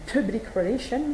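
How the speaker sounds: public relation said with a French accent; French accent on English. Real, not acted. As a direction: her own French accent on the English words. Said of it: "avec mon bel accent". (public relation prononcé avec l'accent français)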